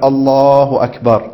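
slow الله أكبر, begun as the hands rise; correct takbir. Shown as a demonstration. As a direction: stretch الله أكبر over the raising of the hands. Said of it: "من بداية الرفع تكبر". (تكبير صحيح ممدود مع رفع اليدين)

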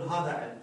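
علم closed on a bare m; pausal form without tanween. Shown as a demonstration. Teacher repeats the stopped reading, tanween dropped. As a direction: say هذا علم with no -un after it. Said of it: "بدون تنوين".

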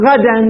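غدا said "ghadan", with -an on the د; accusative ending. Shown as a demonstration. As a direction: end غدا in a sounded -an. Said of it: "الإعراب عليها". (غدا بتنوين الفتح على الدال)

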